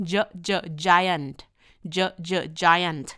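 measured "เจ", "เจ", then drawn-out "giant"; phonics sounding-out. Shown as a demonstration. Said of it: "จีเจ เนาะ".

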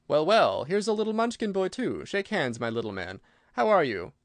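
lively, swooping storybook greeting; hearty greeting. Acted. Scarecrow meeting a little Munchkin boy, hearty greeting. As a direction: greet him with big rises and dips in pitch.

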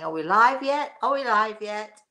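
a touch of fretful repetition; playfully flustered check; mock anxious asking. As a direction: ask twice like a flustered host. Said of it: "I must seem to be really crazy when I'm saying".

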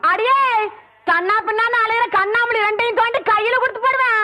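high-pitched quarrelsome warning; angry threat. Acted. (கோபமாக மிரட்டும் குரல்)

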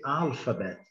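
"alphabet" with the opening A held a little longer; English "alphabet", first vowel lengthened; drawn-out first vowel. Shown as a demonstration. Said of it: "o A fica um pouquinho mais prolongado".

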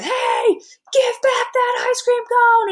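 high, far-off angry yell; teacher playing an angry Plankton; aggressive Plankton. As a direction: snap at him to hand it back. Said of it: "Plankton is very aggressive".

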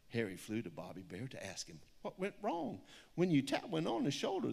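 lilting rhyming picture-book read; story reading. Acted. Author reads her picture book aloud to an audience, storybook lilt. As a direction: read the rhyme with a steady storybook bounce.

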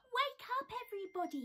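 loud, high wake-up call. Acted. Bear calling his friends awake. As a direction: rouse the whole forest. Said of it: "he called".

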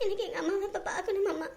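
tearful plea. Acted. Wife begging to see her mother.

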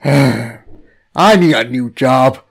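weary sigh. Acted. Captive weary aside.

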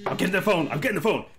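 loud, pressed repetition. Real, not acted. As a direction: rush it out while grabbing.

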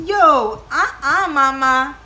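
put-on high, loud head-shaking no from a kid; kid's disapproval. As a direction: imitate the son's disbelief. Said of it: "my sons are like".

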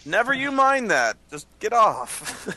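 high, slow pirate captain order; gruff pirate captain. Acted.

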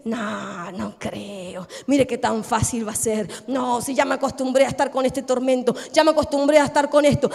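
low, sceptical inner voice; resigned doubt. Acted. Doubting believer answering signs of change, resigned doubt. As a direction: sunk in disbelief, pitch dropped well down.

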